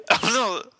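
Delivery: high frog puppet voice; Kermit the Frog. Acted.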